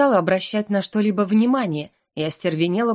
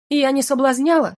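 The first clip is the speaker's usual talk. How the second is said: higher, louder indignant protest; flustered denial; 6 semitones higher, 4 dB louder than usual. Acted. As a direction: stress on соблазняла in outrage. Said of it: "возмутилась".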